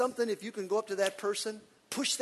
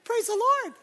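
laughing praise; 11 semitones higher, 4 dB louder than usual. Shown as a demonstration. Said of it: "I'm gonna do this one more time".

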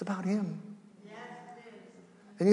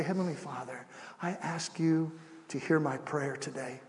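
lower, softer prayer voice; leading a prayer; 5 semitones lower, 6 dB quieter than usual. Shown as a demonstration. Preacher leads listeners in praying to God, hushed. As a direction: pray it gently for others to repeat.

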